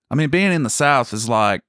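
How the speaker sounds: exaggerated Southern accent. Shown as a demonstration. Showing what being in the South is like, exaggerated Southern accent. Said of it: "You kinda just exaggerate everything".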